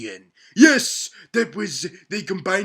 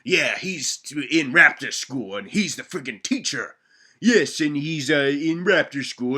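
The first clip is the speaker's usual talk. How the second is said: normal talking voice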